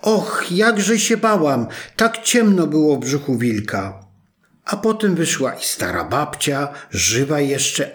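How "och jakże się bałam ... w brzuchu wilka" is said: relieved frightened cry. Acted. Girl freed from the wolf's belly, crying out in a high relieved voice. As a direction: let out the fear now she is free. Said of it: "wołając".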